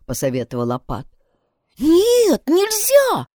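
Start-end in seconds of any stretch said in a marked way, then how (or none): 1.8-3.3 высокий испуганный вскрик; вскрикни в ужасе, очень высоко; horrified cry. A narrator's reading. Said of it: "в ужасе вскричала сестра". (сестра в ужасе отказывается признаться, высокий испуганный вскрик)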